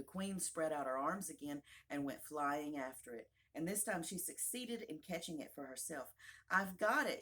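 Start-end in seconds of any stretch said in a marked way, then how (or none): 6.5-7.2 louder, higher cry of success; triumphant. Acted. The queen catches her shawl, triumphant. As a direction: exclaim it in triumph. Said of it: "she cried in a triumphant tone".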